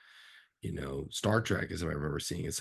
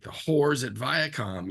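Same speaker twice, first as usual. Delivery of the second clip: Seth Rogen quote; 5 semitones higher, 3 dB louder, slower than usual. Retold or imitated. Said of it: "he's going on".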